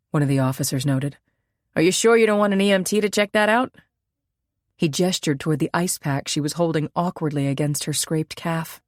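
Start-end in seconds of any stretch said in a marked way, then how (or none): 1.8-3.8 higher, quicker officer voice; a police officer gently pressing her to see a medic; concerned officer. Acted.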